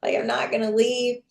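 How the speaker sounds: high, pleading scream that settles into begging; a retold frantic plea; desperate pleading. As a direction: beg him, terrified. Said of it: "like, screaming".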